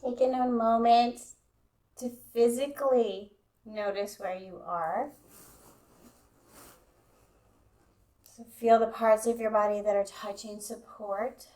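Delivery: calm, even guidance with long pauses; guided meditation. Real, not acted. Yoga teacher easing students into Yoga Nidra, guided meditation. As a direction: settle them in, leaving space between phrases.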